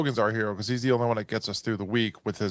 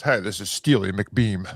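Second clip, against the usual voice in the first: slow, lower radio DJ voice; seventies radio host; 3 semitones lower, slower than usual. Pretend. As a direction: play an old-time radio host. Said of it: "sounds like a nineteen seventies radio host".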